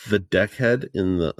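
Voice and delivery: accidental New Zealand accent on "deckhead"; "deckhead" in a slipped New Zealand accent. Real, not acted. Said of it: "didn't mean to speak with a New Zealand accent".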